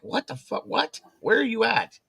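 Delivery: high-pitched alarmed questions; alarmed confusion. Retold or imitated. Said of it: "I'm like".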